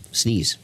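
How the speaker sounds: sudden sneeze; sneezing. Real, not acted. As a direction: sneeze mid-sentence. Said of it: "I'm gonna".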